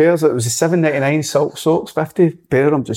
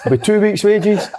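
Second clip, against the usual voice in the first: furious threat; 9 semitones higher than usual. Retold or imitated. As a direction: shout the punishment at him. Manager fines furious player.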